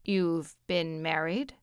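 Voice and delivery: low, slow, wary question; man's questioning voice. Acted. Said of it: "he asked".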